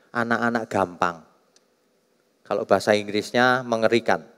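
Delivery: usual speaking voice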